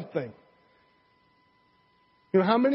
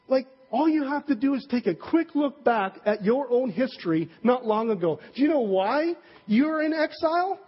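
higher, exasperated lecture to the guys; Nehemiah lecturing; 5 semitones higher than usual. Retold or imitated. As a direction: drive the history lesson home in disbelief. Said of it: "he gives them this historical lesson and he says".

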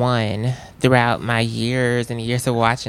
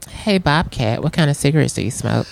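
prompted line; 4 dB louder than usual. Pretend. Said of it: "All right, say".

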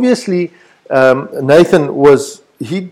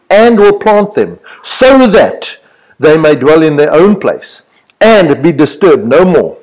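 scripture reading with each "and" emphasized; stress on "and". Shown as a demonstration. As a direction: punch every "and" that starts a promise. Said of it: "I'm gonna emphasize the word and".

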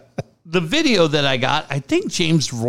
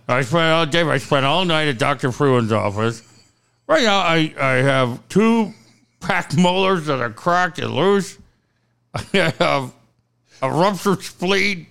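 talking through a clenched jaw; mock injured, teeth held shut; jaw wired shut. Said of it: "jaw wired shut".

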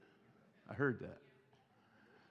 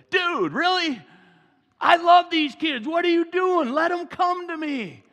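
higher, louder indignant Jesus; exasperated mock rebuke; 13 semitones higher, 12 dB louder than usual. Jesus scolding his disciples for turning kids away, mock exasperation. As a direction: scold the disciples, then soften on let 'em come. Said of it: "I think he was just like".

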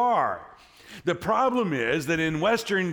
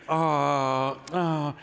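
mock cooing. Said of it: "all the women know what to do".

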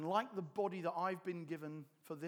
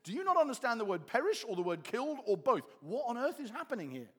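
raised, incredulous questioning; mock bewilderment; 4 semitones higher, 4 dB louder than usual. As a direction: puzzle aloud in exasperated disbelief. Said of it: "you find yourself thinking".

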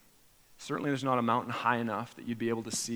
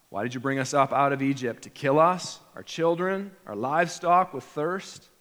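accusing complaint; 5 dB louder than usual. Retold or imitated. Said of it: "Israel questioned God".

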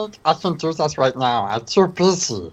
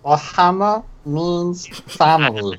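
Stitch voice. Acted. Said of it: "skit with that voice".

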